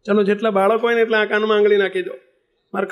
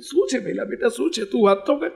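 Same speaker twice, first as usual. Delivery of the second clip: gentle reassurance; 3 semitones higher, 4 dB quieter than usual. Retold or imitated. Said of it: "મેં કીધું".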